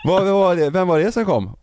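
imitating Sanna asking who came, surprised. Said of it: "Och Sanna bara". (förvånad, härmad Sanna, högt och ljust)

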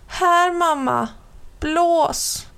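put-on high, eager small-boy voice; a little boy asking mum to blow; little brother voice. A narrator's reading. Little brother asks mum to blow on it, high and eager.

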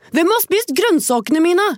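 high, slow little dwarf complaint. Acted. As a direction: squeak it out like a puzzled dwarf. Fourth dwarf asks, story.

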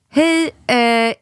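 high, chirpy reassuring nurse voice; sing-song it like a nurse calming a parent; school nurse. Retold or imitated. Mother imitating the school nurse ringing about her son.

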